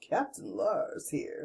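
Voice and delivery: slow, smooth seventies DJ impression; soft, drawn-out DJ-style captain's announcement; Captain Lars. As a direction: imitate a laid-back radio DJ announcing himself. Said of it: "he sounds like a seventies D J guy".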